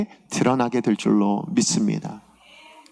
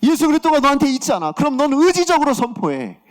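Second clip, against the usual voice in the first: high, emphatic command as God; insistent preacher voicing a divine charge; God's urging; 9 semitones higher than usual. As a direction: press the order home with fervour. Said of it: "하나님의 뜻인 것 같았어요".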